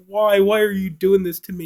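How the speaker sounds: high-pitched mock-tearful plea; retold distress, no real sobbing; in tears. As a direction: imitate a hurt woman pleading, pitch lifted. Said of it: "the woman's in tears".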